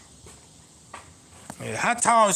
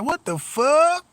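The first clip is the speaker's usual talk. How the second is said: high, slow, startled "what the fuck"; startled exclamation; 7 semitones higher, 3 dB louder, slower than usual. Retold or imitated. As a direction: stretch it out in shock at the dog. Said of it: "running down the street like".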